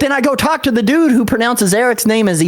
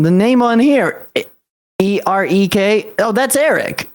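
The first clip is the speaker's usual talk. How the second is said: mimicking clerk; 4 semitones higher than usual. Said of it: "And he's like".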